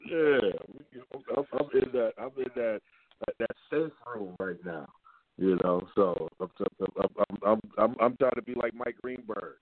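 muffled bad phone line; garbled like a bad connection; underwater. Real, not acted. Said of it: "You sound like you're underwater".

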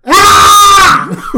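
sudden loud yelp of shock; startled shout. Real, not acted. Reacting to a gross picture, a loud startled yelp. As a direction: jump at what you just saw.

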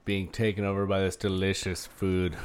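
words around a bite of pizza; chewing while talking; mouth full. Real, not acted. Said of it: "my mouth is just being taken over".

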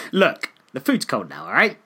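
imitating a curt, annoyed customer; mock her being short with the cashier; teasing imitation of a rude complaint; mock snippy complaint. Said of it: "No, I didn't say it like that".

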